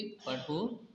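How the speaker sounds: "पढ़ो" set apart, rising, then a stop; pause after पढ़ो. Shown as a demonstration. Teacher showing where to stop briefly, "पढ़ो" left hanging before a pause. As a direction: lift the end of "पढ़ो" and halt there. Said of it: "तो हम थोड़ा सा रुके".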